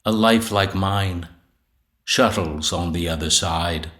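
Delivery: measured poetry reading with pauses between lines; poem recitation. Acted. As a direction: recite it deliberately, phrase by phrase. Reads own sonnet aloud.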